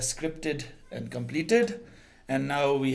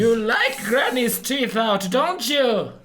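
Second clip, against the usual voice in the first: toothless; 8 semitones higher, 6 dB louder, slower than usual. Pretend. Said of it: "weird mix of Palpatine".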